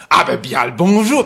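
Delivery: mock Haitian accent greeting from the taxi driver; lightly imitated Haitian accent. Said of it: "je suis pas capable d'imiter l'accent haïtien".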